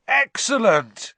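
high, drawn-out cheer; excited yell. A narrator's reading. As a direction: yell it out in delight, loud and high. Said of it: "yelled Ron".

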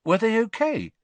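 taken aback; startled. A narrator's reading. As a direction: ask in sudden alarm.

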